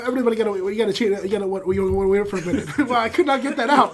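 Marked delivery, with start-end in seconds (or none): 0.0-2.7 tongue-tied rush. Real, not acted. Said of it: "I think you just had a stroke".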